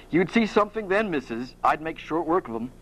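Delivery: lightly attempted Cockney; Cockney bragging, gently sketched; a hint of a Cockney chap; Perseus. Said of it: "like to do a Cockney accent".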